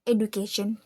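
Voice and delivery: education with a clean hard D; Indonesian-style D. Shown as a demonstration. Student shows Indonesian habit, plain D in education. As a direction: say education as "eh-doo-kay-shun", no J sound. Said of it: "Usually in Indonesian, we say".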